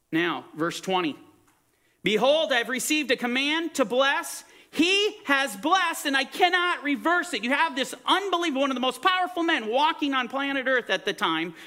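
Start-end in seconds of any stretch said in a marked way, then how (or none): 2.0-11.5 lifted, declaring preacher's voice; higher-pitched scriptural proclamation; emphatic preaching. Real, not acted. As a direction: proclaim it from the pulpit. Preaches from the verse.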